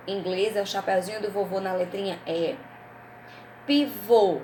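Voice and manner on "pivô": Pivô with a closed final O; Pivô ending on a held, closed O; closed final vowel. Shown as a demonstration. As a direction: round off the last vowel of Pivô. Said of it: "som fechado".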